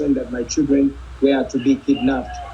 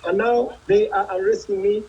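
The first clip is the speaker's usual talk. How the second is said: alarmed; 5 semitones higher than usual. Real, not acted. Under fire, arrested mid-interview.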